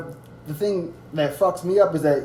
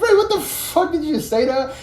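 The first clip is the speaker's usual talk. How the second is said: mock angry challenge; 10 semitones higher than usual. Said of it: "I would be like".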